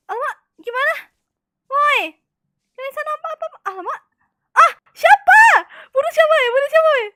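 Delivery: high, loud panicked shrieks. Real, not acted. Gamer panicking over who to kill, high loud squeals.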